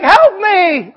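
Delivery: half-comic begging, still in panic; mock plea for help. Preacher continues the frantic Geico character, pleading loudly. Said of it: "And he's like".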